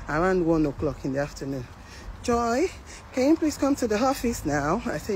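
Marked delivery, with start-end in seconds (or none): 2.2-4.8 lightly voiced manager, pitched higher; manager's summons. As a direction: mimic a polite office summons, a little higher. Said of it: "the manager call me".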